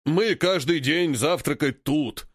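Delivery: slow honking ape laugh-talk. Acted. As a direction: honk it out like a gloating ape. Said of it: "гогочет вожак". (гогочущий голос вожака)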